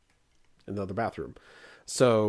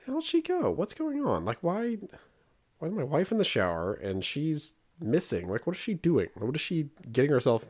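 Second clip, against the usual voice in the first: higher, rising panic, racing on the last line; a dad's retold alarm, pitched up; worried dad; 4 semitones higher than usual. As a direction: fret aloud about the missing kid. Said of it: "So I'm like".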